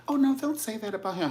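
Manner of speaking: mock protest.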